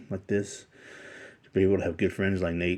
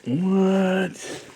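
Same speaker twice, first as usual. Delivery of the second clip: surprised; 12 semitones higher, 5 dB louder than usual. Real, not acted. Stunned by the gift.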